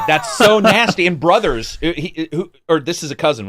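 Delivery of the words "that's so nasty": loud, high, drawn-out disgust; big, slow, appalled outburst; grossed-out exclamation. Real, not acted. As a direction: exclaim it slowly in amused revulsion. Reacts to gross story, repeating himself.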